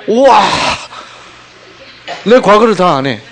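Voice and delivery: loud, high-pitched mock astonishment; amazed exclamation. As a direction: gasp in wonder like an impressed customer. Acts out amazed fortune-teller customers. (깜짝 놀라 감탄하듯 크게)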